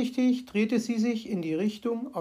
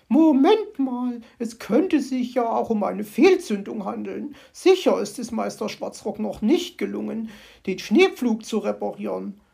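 louder, slowed, unsure magpie; mildly shaky magpie voice; a touch of trembling; 2 semitones higher, 5 dB louder than usual. Acted. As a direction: talk herself calm, not convinced. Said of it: "ihre Stimme bebte".

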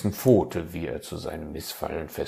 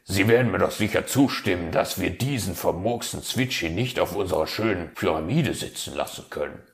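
hopeful; 4 dB louder, faster than usual. Acted. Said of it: "meinte der Fuchs hoffnungsvoll".

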